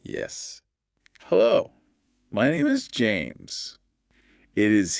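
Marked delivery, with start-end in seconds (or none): 1.2-3.8 monotone robot voice. Shown as a demonstration. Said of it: "the monotone robot voice".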